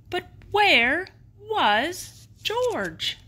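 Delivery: teasing where-did-he-go question; suspenseful surprise. A narrator's reading. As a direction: draw it out to keep the children guessing. George suddenly gone from sight.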